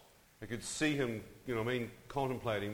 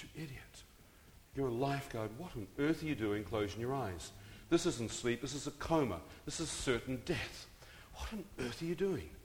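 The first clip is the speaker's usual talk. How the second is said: scolding himself; 4 dB quieter than usual. Retold or imitated. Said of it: "I thought".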